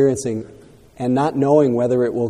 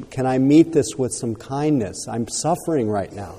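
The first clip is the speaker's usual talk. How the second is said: gentle self-compassion; 2 semitones higher than usual. Shown as a demonstration. Teacher showing the student how to meet pain, tenderly. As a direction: model tender words to your own pain. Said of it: "That's what I would want you to do".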